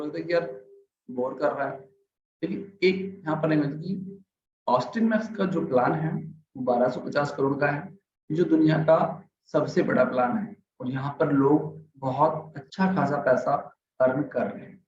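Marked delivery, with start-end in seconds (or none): 4.7-14.8 measured, clear delivery; balanced model reading; steady clear pace. Shown as a demonstration. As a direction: keep an even, clear speed. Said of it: "मैंने हर चीज को clearly कहा".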